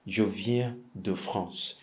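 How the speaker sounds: "Je viens de France" said very slowly; slow model sentence. Shown as a demonstration. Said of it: "If you're from France".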